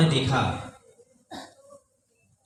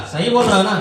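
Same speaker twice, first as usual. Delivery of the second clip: mother's disbelief; 5 semitones higher, 4 dB louder, faster than usual. Retold or imitated. Mother doubting son.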